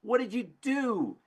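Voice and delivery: a betrayed frog yelling at the scorpion; angry frog. Acted. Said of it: "And the frog looks up and says".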